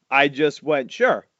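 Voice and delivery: ordinary talk, nothing marked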